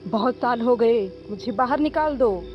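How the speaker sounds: high, loud desperate ghost woman; pained weeping plea. Acted. Trapped woman begs Arjun to pull her out, anguished. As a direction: cry out to be freed, pitched high. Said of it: "किसी औरत के दर्द भरे रोने की आवाज".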